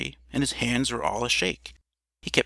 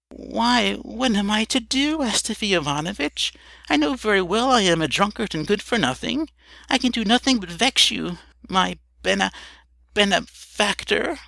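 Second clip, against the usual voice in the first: a lightly voiced, higher drunkard's tearful plea; tearful Emelyan; 8 semitones higher than usual. A narrator's reading. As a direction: beg forgiveness, close to tears, slowing on benefactor. Emelyan pleads, on the verge of tears.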